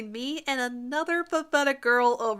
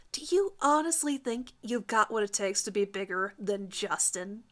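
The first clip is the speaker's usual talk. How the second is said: challenging. Acted. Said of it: "she challenges me".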